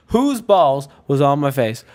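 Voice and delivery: lightly put-on bad British accent; terrible British accent. British pledge questioning all the pledges, bad British accent. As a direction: demand answers in a clumsy British accent. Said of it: "This is my terrible British accent".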